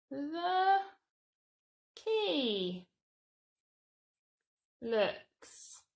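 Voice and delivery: each word spaced out slowly for writing; slow word-by-word dictation. Shown as a demonstration. Teacher dictating the how sentence to children, slow and spaced. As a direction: dictate it one word at a time. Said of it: "start with how".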